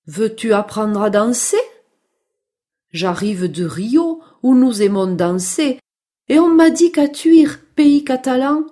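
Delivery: lightly voiced, sing-song storybook parrot; friendly parrot. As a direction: play a chatty parrot offering help. (voix légère de perroquet bavard)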